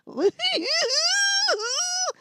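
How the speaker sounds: a high hammed-up fake wail; mock sob. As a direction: wail like a crybaby to mock her. Mimics crying while mocking poster.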